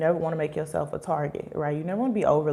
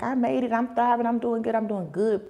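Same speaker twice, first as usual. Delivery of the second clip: imitating a proud brag, higher pitch; mock boasting; 5 semitones higher than usual. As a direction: brag quickly in a raised, sing-along mimicry. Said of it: "she's like".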